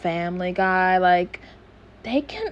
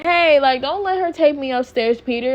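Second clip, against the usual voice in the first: mildly urgent, high-pitched retold plea; 7 semitones higher than usual. Stewie begs Peter not to let her take him upstairs, retold high-pitched plea. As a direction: retell a child's protest in a raised pitch. Retold baby pleading with dad.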